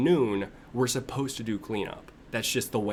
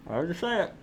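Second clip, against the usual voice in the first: dramatic; 5 semitones higher, faster than usual. Real, not acted. Repeated, louder then fading.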